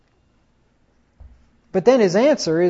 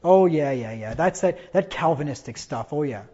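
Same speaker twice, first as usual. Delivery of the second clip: dismissive, fading softer; belittling; 5 semitones lower, 4 dB quieter than usual. Retold or imitated. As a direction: pastor brushing off a Calvinist, dismissive trailing mockery. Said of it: "he'll belittle you".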